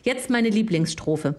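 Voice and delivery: reading lyrics like a poem; solemn mock poetry reading; dramatic reading. Reads song lyrics aloud.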